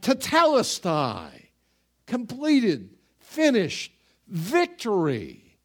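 slow, drawn-out pride over finished work; satisfied artist. Acted. Artist admiring his masterpiece, pleased and slow. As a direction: savour it like a painter stepping back from a masterpiece. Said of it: "he looks back and he says".

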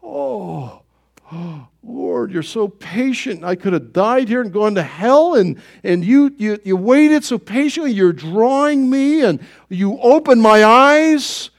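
hushed, moved thanks to the Lord; tearful awe. Retold or imitated. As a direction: let it catch in the throat with wonder. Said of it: "you finally go like".

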